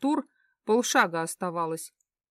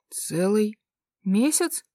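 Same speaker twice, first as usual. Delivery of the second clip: surprised; slower than usual. Acted. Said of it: "переспросил он удивлённо".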